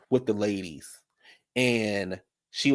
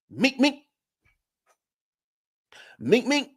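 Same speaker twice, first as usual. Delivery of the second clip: a much higher, squeaky cry; high squeals; 13 semitones higher, slower than usual. Retold or imitated. Jackie pushed against the wall, squealing high. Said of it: "Jackie was like".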